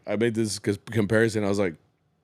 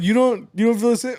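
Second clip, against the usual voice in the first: mock jealous wife; 10 semitones higher, 5 dB louder than usual. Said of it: "I was like".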